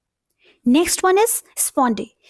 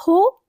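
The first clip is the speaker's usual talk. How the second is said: "हो" said higher, as a strong syllable; strong, raised "हो"; stressed syllable; 5 semitones higher than usual. Shown as a demonstration. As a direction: put full stress on "हो". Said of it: "strong means stress sound है".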